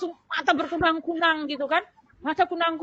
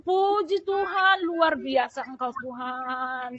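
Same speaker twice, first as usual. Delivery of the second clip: fervent praise; much slower than usual. Retold or imitated. Patient praising God for normal oxygen, fervent drawn-out praise. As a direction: stretch out each word in worship. Retold praise after healing.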